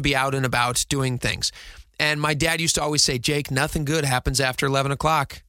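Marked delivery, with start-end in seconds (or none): 3.2-5.4 lightly put-on Southern accent for dad; amateur Southern accent, imitating a father. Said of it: "a Western accent or a, a Southern accent".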